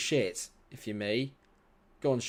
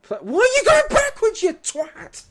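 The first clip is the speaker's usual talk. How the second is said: shrieking, much higher outrage; furious yell; 11 dB louder than usual. Real, not acted. Streamer shrieking at a player passing backwards, furious. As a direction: scream at the player going backwards. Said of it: "Pardon my language".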